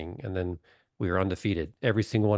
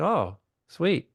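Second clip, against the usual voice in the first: mock delight; 8 semitones higher than usual. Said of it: "I said".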